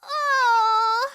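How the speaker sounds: upset gasp. Acted. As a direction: react as the boat sinks. Boats capsized.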